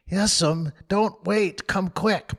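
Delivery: put-on high, panicked boy calling out; alarmed call. Sid calling Aunt Polly downstairs, panicked. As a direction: rush to fetch help.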